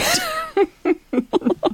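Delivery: high rising burst of laughter. Real, not acted. Guest laughs after her poker throat-slitting joke, high laugh. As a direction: laugh at your own dark punchline.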